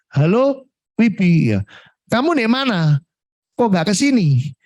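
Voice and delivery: menirukan sapaan akrab bernada tinggi; nada telepon klien. Retold or imitated. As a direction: tirukan klien yang mencari-cari dengan ramah. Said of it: "Nadanya gini". (klien menelepon menanyakan kenapa tidak datang, nada tinggi)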